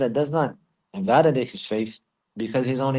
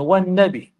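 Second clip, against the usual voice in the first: blurted slip; 2 semitones higher, 3 dB louder than usual. Retold or imitated. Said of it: "You know".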